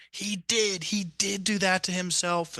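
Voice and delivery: he did do that to himself, stressing do; realization. Retold or imitated. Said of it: "And then the breath unlocked".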